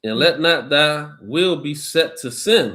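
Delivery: slow, measured Bible reading voice; scripture reading. Acted. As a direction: read it out like a preacher at the lectern. Reads scripture.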